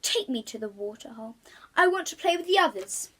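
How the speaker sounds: bored crocodile suddenly keen; eager plea. Acted. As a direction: beg the butler to take him.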